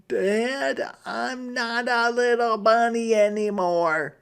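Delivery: put-on high, fast child's voice; quick high kid voice, proud; little rabbit voice. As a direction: insist you're grown up, like a little kid. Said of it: "said Jasper".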